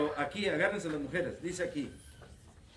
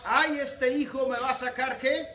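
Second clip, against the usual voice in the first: exasperated mother; 4 semitones higher, 4 dB louder than usual. Retold or imitated. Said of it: "¿Cómo decían las mamás?".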